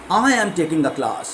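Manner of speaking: slow, with class weighted at the end; stress on class. Shown as a demonstration. Teacher repeating the stress example for the class. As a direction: say it slowly and land on class. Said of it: "तो यहाँ पे आपने क्लास को emphasise किया".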